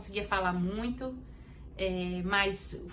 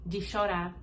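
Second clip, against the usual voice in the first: softer, calm and reassuring; gentle divine voice; 3 semitones lower, 5 dB quieter than usual. Retold or imitated. The Holy Spirit comforting her in the car, softly reassuring. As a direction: speak as a comforting, tender presence. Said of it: "o Espírito Santo falou comigo assim".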